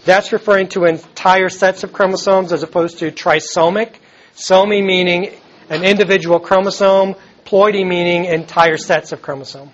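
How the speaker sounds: rough gravelly voice from a sore throat. Real, not acted. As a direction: speak through a gravelly, worn voice. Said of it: "thanks for sticking through my gravelly voice this morning".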